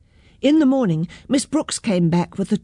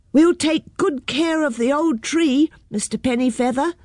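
earnest promise; 7 semitones higher than usual. A narrator's reading. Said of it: "they promised".

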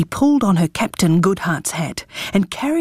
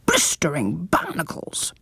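whispering; 3 semitones lower, 5 dB quieter than usual. A narrator's reading. Parrot mutters.

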